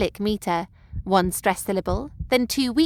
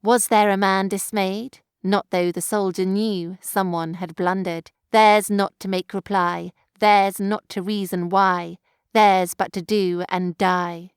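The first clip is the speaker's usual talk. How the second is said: slow, weighty poem reading; solemn recital of war verse; poem recitation. Acted. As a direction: let each line land with grim weight. Recites poem lines dramatically.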